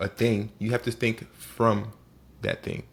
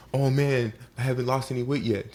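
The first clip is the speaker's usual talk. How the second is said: higher-pitched mock complaint; mock disappointment; 3 semitones higher than usual. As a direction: play an impatient dieter lightly moaning. Imagined dieter complaining about results.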